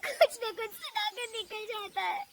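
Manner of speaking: high, plaintive plea to God; self-pitying high voice; tearful complaint. Acted. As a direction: whine it, close to crying. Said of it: "वो रोने लगती है".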